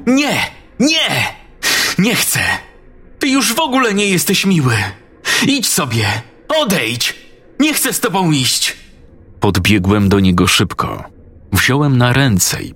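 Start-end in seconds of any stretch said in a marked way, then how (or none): 0.1-8.8 put-on very high child's voice, crying out no; a frightened boy pushing someone away; panicked child refusing. Daniel refuses to go with Wallman, high frantic child voice.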